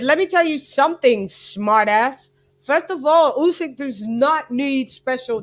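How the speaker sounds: off-target attempt at a Ukrainian accent; loud first stab at imitating a Ukrainian accent; Klimas. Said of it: "that's not his accent".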